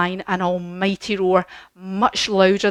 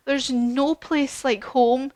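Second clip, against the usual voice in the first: mild crying; 4 semitones higher, slower than usual. Acted. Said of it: "She starts crying".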